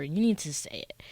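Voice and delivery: hushed, pressing whisper. Real, not acted. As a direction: whisper it with intent. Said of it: "And I say need".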